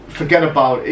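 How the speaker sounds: imitated New York gangster accent; mock gangster accent. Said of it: "putting on this accent".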